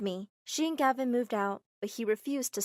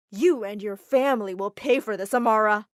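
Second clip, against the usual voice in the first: cold threat; 9 dB louder than usual. Acted. Dimitri threatens before storming off.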